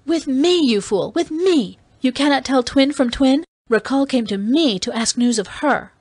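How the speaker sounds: high, emphatic, exasperated insistence; scornful correction. Acted. Dalisa telling Kiral it was she, scornful insistence. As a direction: drive it home to a fool.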